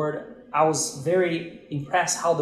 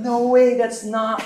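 high, loud no way; retold disbelief; 8 semitones higher, 8 dB louder than usual. Pastor learning they're from Curitiba, loud high disbelief. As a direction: blurt out the disbelief.

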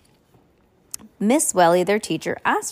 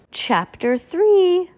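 announcing chapter title; 3 semitones higher, 4 dB louder, much slower than usual. A narrator's reading. Reading chapter title to child.

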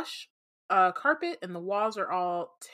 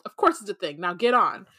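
haughty, bossy snob; snooty voice; 8 dB louder than usual. Acted. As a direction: order her aboard with disdain. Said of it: "the elevator in a snooty voice".

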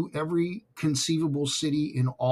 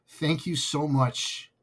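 moved thanks; slower than usual. Real, not acted. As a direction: thank them while fighting back tears. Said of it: "I'm sort of tearing up".

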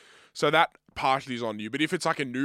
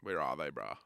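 impatient mutter; 11 semitones lower, 9 dB quieter than usual. Pretend. Acting out waiting in the car.

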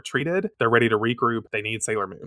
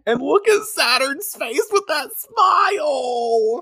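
gushing shout; 3 dB louder, slower than usual. Real, not acted. Overjoyed by cute panel.

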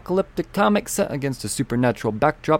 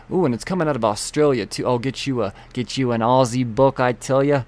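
put-on playful, uncertain stab at an Aussie accent; muddled Australian accent. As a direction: attempt at an Aussie accent, not quite landing. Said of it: "I don't know what that accent was".

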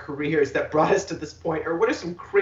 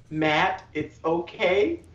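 reassuring; slower than usual. Pretend. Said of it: "I'm here to remind him right now".

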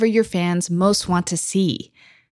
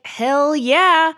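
put-on excited teen cheer; 6 semitones higher than usual. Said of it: "I was like".

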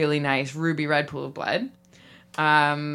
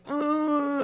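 mock crying; 8 semitones higher than usual. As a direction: imitate a man crying, high-pitched. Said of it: "crying so hard".

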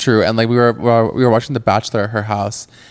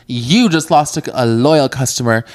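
entitled customer; 4 dB louder than usual. Retold or imitated. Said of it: "there was a voice of a, of a customer".

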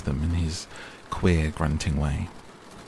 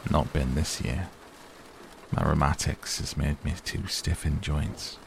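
grumbling; 3 dB quieter than usual. Acted. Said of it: "in his grumbling voice".

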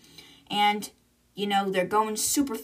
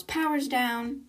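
retold yell; 4 semitones higher, slower than usual. Crew member reports power loss amid screaming, mild retold yell. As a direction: call out the failure, held back. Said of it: "Halima yells".

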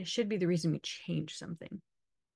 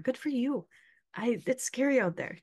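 jokey mock alarm, raised pitch; sarcastic; 3 semitones higher than usual. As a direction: play up a sarcastic warning. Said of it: "I'm just being sarcastic at this point".

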